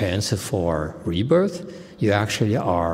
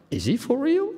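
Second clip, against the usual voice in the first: mock disbelief, pitched way up; incredulous question. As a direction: imitate their doubt, high and rising. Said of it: "and they said".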